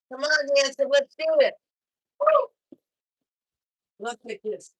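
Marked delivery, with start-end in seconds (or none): 0.1-2.8 louder, higher host cheer; host hyping the room, building to a whoop; hype shout. Real, not acted. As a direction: fire up the crowd for the next comic. Hyping the next act.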